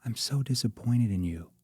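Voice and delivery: gentle concerned rebuke. Shown as a demonstration. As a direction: say it with love and care. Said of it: "shifting my voice into a concern tone".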